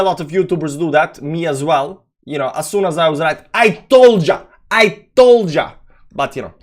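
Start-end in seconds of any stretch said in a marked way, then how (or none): 3.5-5.7 loud, high gloating told ya. Retold or imitated. YouTuber gloating to chat after calling it right, loud and smug. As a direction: crow it like a smug winner.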